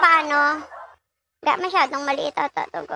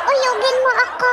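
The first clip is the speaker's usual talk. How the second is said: mock flirty wife; 8 semitones higher than usual. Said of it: "Sabihin na naman yan nila".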